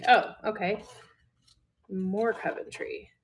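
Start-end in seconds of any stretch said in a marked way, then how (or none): 1.9-3.1 broad Midwestern vowels; Midwestern accent. Real, not acted. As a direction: let the Midwestern accent slip out. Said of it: "my Midwestern accent just popped out".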